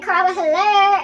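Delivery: bold phone greeting. Retold or imitated. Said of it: "I went from being like".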